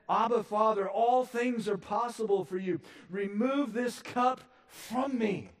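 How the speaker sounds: loud, high plea that slows at the end; Jesus praying. Acted. Jesus begs his Father, loud and slowing. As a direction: pray it as an anguished cry to the Father. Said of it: "He said".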